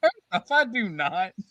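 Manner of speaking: emphatic, deliberate, loud, slow, indignant tone. Retelling the producer's reply to the jokes, imitating Lauren. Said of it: "And she's like".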